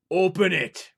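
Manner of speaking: put-on the giant orders the boy; giant's order. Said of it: "ordered the giant".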